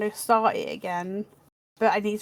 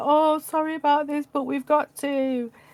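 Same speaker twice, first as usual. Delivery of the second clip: timid, high, feeble, wimpy voice; 6 semitones higher than usual. Describing a game where the weapons talk, doing the wimpy talking-weapon voice. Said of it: "is very wimpy and is all like".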